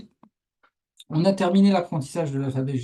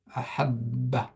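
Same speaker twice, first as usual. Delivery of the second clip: slow "Ahabba" with held double b; slow reading; 2 semitones lower, 4 dB quieter, much slower than usual. Shown as a demonstration. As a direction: model "Ahabba" slowly for learners. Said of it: "Je vais les lire moi doucement". (« Ahabba » lu lentement, posément)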